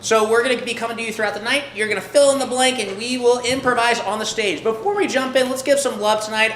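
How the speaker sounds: ordinary talk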